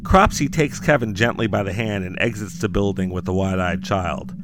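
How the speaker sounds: dramatic horror story read; story narration. A narrator's reading. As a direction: narrate like a campfire horror tale. Narrates Mike Lindell's doom.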